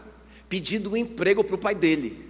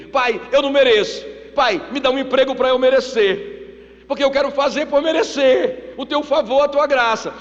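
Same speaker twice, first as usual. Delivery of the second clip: raised, louder pleading son; insistent pleading; 6 semitones higher, 5 dB louder than usual. Acted. Prodigal son begs his father for a job, insistent pleading. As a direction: plead your case, pitch pushed up.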